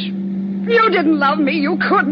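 wounded, drawn-out accusation; hysterical shouting. Acted. Spurned girlfriend accusing her lover of never loving her, hysterical. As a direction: cry it out in hurt fury. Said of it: "Stop shouting".

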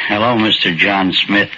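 normal talking voice

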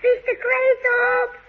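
drawn-out call to someone below. Acted. Calling from high window.

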